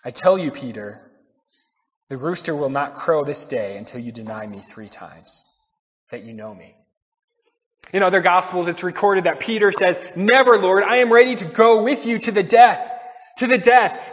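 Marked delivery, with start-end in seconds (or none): 0.0-6.8 low, soft, sinking to very quiet; subdued, solemn acted warning; grave prediction. Jesus foretells Peter's denial. 10.2-14.1 raised, higher voice, acting a proud vow; emphatic acted pledge; fervent protest. Peter protests his loyalty to Jesus.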